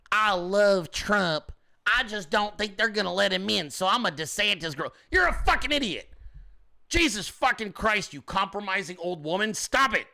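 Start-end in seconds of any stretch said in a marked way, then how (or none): 0.1-4.9 mocking old lady. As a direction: drag it out like a dithering voter. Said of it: "The fucking lady".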